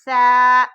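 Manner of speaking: سا said loud but with a soft s, no whistle; soft سا with the tongue tip between the teeth; gentle سا, no hiss. Shown as a demonstration. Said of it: "اسے نرم پڑھیں گے".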